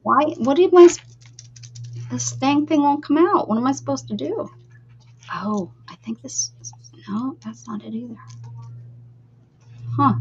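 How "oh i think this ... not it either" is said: frustrated whisper to herself. Real, not acted. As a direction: whisper it, giving up. Whispering while trying to fix it.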